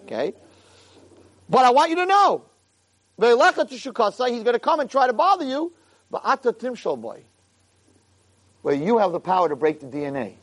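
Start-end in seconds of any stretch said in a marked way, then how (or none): 1.5-7.2 rally him, urging from above. Acted. God urges Cain on.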